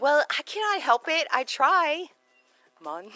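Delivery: high, loud mock Jamaican; badly faked Jamaican accent. Shown as a demonstration. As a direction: protest in a hammed-up Jamaican lilt. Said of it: "like, Jamaican".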